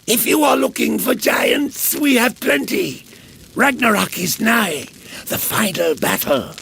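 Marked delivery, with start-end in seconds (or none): 0.1-4.9 put-on old man hollering across the fire; excited shout. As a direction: bellow it out, almost gleeful. Old man shouts about giants.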